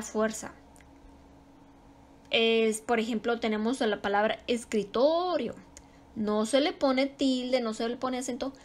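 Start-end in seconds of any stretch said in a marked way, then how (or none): 4.5-5.5 escritorio with a lengthened TO; teacher stressing TO in escritorio. Shown as a demonstration. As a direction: lean on the TO in escritorio. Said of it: "ahí recae la sílaba tónica".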